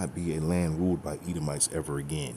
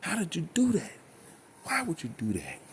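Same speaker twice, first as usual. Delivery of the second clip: a hammed-up, much higher whine of disbelief; mocking news hosts; 4 semitones higher than usual. Mimicking news hosts who can't believe the street preachers were right, mock whining. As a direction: parody the pundits' exasperation, pitched way up. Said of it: "in the back of their head, like".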